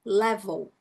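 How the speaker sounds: 'level' with the second E dropped; silent second E. Shown as a demonstration. Teacher modelling 'level' for students, second E silent. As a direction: go from V straight to L in 'level'. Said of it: "você passa de V para L".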